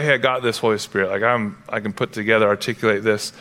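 hint at someone smugly capable with words; lightly voiced verbose person. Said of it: "if you're very verbose".

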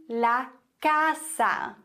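la casa slowly, with an ordinary hissed S; normal S sound. Shown as a demonstration. Teacher shows the Spanish S, plain S in casa. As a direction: say casa with an S as in German Haus. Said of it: "wird normal wie ein S gesprochen".

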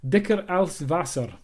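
German title in an amateur German accent; tentative German pronunciation, stressed like a title; attempted German accent. Shown as a demonstration. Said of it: "my attempt at a German accent".

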